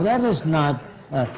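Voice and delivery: ordinary talk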